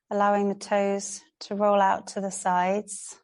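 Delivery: calm yoga teacher's instruction with long pauses; unhurried, spaced-out yoga guidance; guided relaxation. Real, not acted. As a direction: guide a class gently into rest, pausing between phrases. Leads a relaxation practice.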